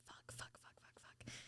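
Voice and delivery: tiny voiceless repeated curse; barely audible retold cursing; whispered panic. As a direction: whisper frantically under your breath. Retold private panic at approaching worker.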